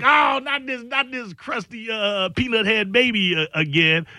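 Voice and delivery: mock annoyance, starting high; put-on exasperated whine; annoyed. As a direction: complain as if fed up with baby emails. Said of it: "it can be annoying".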